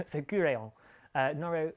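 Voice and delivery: put-on light French accent on Kureon and Noro. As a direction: say it with a hint of French. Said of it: "why am I doing it in a French accent?".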